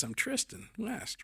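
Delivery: high, slow mock woman's voice; lightly voiced young woman saying her name; playful imitation of a woman introducing herself; imitating her introduction. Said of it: "And she goes".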